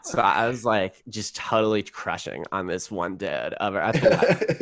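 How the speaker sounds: lightly voiced valley girl; breezy valley girl gossip. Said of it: "a Valley Girl Vice".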